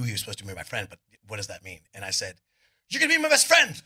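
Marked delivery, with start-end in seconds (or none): 2.9-3.8 very high, louder creepy squeal; creepy psycho kid. Retold or imitated. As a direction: squeal it like an unhinged kid stalker. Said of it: "Like this".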